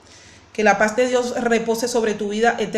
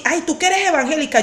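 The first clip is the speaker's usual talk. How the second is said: higher-pitched mock indignation, not shouted; imitated angry accuser; 5 semitones higher than usual. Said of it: "esa persona me dijo así".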